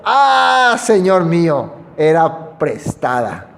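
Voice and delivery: a desperate cry fading to regret; crying out in dismay. Acted. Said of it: "Y gritó diciendo".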